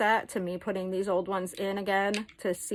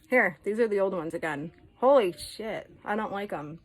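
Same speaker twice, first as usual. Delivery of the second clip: lisping with dentures. Real, not acted. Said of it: "I can't even talk right".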